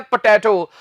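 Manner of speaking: पोटैटो with a short open "tat" middle; the common wrong पोटैटो, vowel as in "cat"; common mispronunciation. Shown as a demonstration. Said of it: "हमारे यहां इससे अक्सर बोल देते हैं".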